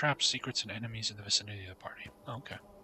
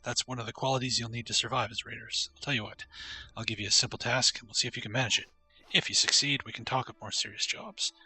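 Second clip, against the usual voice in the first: lightly put-on Scottish dwarf accent; a hint of a Scottish brogue on a gruff dwarf; 3 dB louder than usual. Streamer voicing the dwarf offering the spider quest, light Scottish accent.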